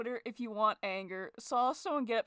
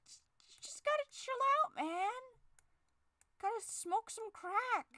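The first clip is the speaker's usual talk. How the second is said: mock stoner; 11 semitones higher than usual. Stoner joke voice.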